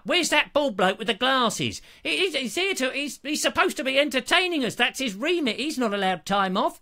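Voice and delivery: lightly voiced indignant viewer ranting; grumbling viewer. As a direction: moan like an indignant fan. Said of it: "turn up en masse going".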